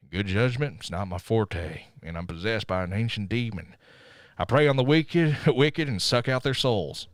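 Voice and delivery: lightly voiced Cage monologue, dramatic; a hint of brooding movie narrator; Nick Cage impression. Podcaster doing the Ghost Rider opening as Cage, lightly voiced. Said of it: "here's my best Nick Cage impression".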